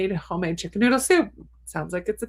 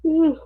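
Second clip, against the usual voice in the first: a long, high, airy yawn; yawning tiredly while reading viewer comments; 10 semitones higher, 6 dB louder than usual. Real, not acted. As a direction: let a real yawn slip out mid-read. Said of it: "I'm sorry about the yawning".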